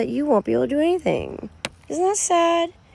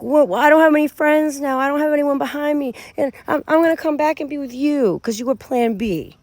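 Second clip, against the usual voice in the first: mock their sorry comeback plea; whiny ex; 6 semitones higher than usual. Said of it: "They're like".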